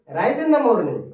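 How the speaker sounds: "rise" stressed loud and high. Shown as a demonstration. Teacher stressing main verb for class. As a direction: punch "rise". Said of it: "main verb पर जोड़ डालकर बोला जाता है".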